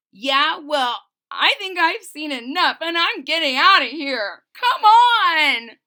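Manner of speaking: loud, high, frightened yelling; scared kid yelling to get out of there; panicked shout. Acted. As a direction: shout it like you're bolting for home. Wilson panics and flees.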